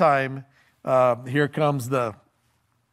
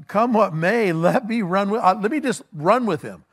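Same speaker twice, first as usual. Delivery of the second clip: raised, insistent plea; eager pleading; 6 semitones higher, 4 dB louder than usual. Acted. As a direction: beg keenly to be let go. Acted runner pleading to go.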